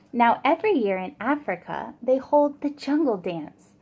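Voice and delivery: put-on lilting storybook rhyme read to kids; reading to children. A narrator's reading. Teacher reading a rhyming story to children, lilting. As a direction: read it like a bedtime picture book. Reading picture book aloud.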